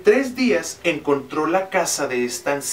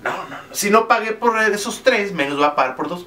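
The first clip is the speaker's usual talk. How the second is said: refusing king; 4 semitones higher than usual. Acted. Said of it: "El rey".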